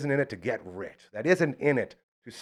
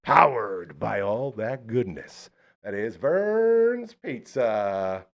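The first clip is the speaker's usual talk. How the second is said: ad read; much slower than usual. Acted. Sponsor read.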